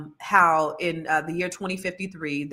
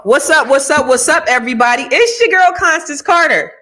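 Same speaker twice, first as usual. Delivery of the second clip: higher and louder, a big hyped welcome; hype greeting; 7 semitones higher, 11 dB louder than usual. Real, not acted. Host hyping her live audience with a loud welcome. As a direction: greet the whole chat like a party host.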